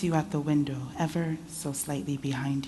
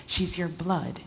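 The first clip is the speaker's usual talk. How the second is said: desperate; 3 semitones higher than usual. Acted.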